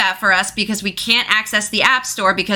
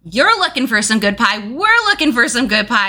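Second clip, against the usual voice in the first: goblin leader; 7 semitones higher than usual. Acted. Goblin leader talking to the party.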